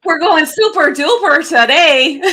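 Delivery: mock Midwestern accent. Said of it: "I'm not used to doing the Midwestern accent".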